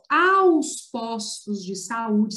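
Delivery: aos postos de saúde, drawn out slowly; slow emphasis. Shown as a demonstration. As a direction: stress the "aos" slowly, word by word. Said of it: "Você não pode fa-, escrever assim". (devagar, destacando "aos")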